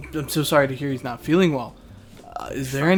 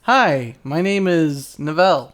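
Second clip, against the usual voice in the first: slow, louder Orcish greeting; slow deliberate Orcish-speaking voice; 5 dB louder, much slower than usual. Acted. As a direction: say it slowly as if in Orcish. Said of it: "I'll speak in Orcish".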